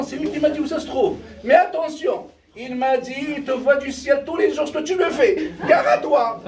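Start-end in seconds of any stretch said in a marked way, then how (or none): 1.4-6.4 higher, laughing mock threat; mock warning. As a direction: wag a finger, half joking. Wife relays father's warning.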